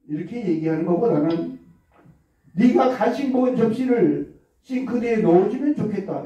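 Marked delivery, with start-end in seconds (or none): 2.5-6.2 gentle, light request with a smile; friendly request. Shown as a demonstration. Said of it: "이렇게 구체적으로".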